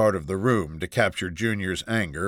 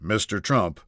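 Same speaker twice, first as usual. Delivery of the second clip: steady. Acted. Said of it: "his voice steady".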